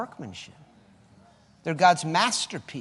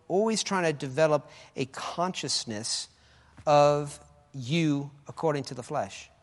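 normal talking voice

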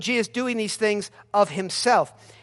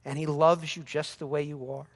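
softer, lower syrupy reassurance; mock-sweet preacher; 4 semitones lower, 4 dB quieter than usual. Mocking a soft feel-good sermon, sugary. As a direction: parody a gentle sweet preacher. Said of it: "he's not just saying".

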